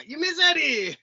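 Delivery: mock sweet, high; high teasing singsong. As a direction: needle him playfully.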